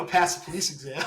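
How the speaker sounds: laughing through the news to his friend; giggling out the big news; laughing while telling. Real, not acted. Telling his jailed best friend, laughing as he speaks. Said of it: "we were laughing about it".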